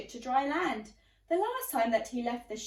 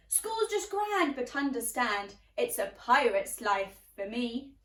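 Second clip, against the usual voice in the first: put-on pirate boy; 4 dB louder than usual. Jim replies to teacher.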